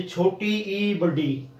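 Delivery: put-on name छोटी ई and बड़ी as if teaching small children; classroom letter names. Shown as a demonstration. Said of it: "कई बार हम इनका भ्रम पैदा करते हैं".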